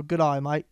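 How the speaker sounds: "day" turned into "eye" in "Good eye, mate"; "Good eye" for g'day. Shown as a demonstration. Coaching a friend's Australian accent, "Good eye, mate" with day as "eye". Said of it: "say I, and say mate".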